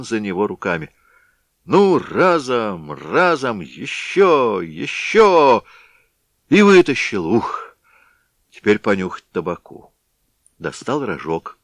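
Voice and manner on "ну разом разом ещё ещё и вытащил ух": louder, higher, with strain; effortful grunting pull, rising to release. Acted. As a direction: heave the pot up. Heaving the heavy pot.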